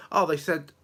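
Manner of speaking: chirpy mock mother; imitating mum. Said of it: "Right, what did they say last night?".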